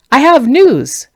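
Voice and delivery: put-on a plump old farmer, winded; old man voice. Breathless old man arriving.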